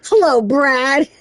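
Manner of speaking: slow, drawn-out villain hello; slow mock villain greeting. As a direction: savour the name like a villain.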